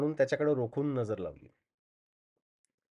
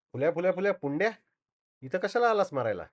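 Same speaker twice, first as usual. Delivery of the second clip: higher-pitched startled outburst; astonished cry; 5 semitones higher than usual. Acted. Gajanan recognising the man under the truck, astonished cry. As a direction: exclaim in cursing amazement. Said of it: "एकदम तो आश्चर्यानं ओरडला".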